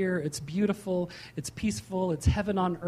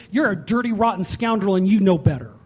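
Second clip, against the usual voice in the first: condemning voice; 5 dB louder than usual. Acted. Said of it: "Condemnation says".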